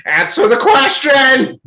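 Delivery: high, very loud, drawn-out yell; shouted demand. Acted. Pressing someone who gives no direct answer to something, shouted demand. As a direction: explode into a piercing, slowed-down shout. Mock interrogation outburst over dodged answers.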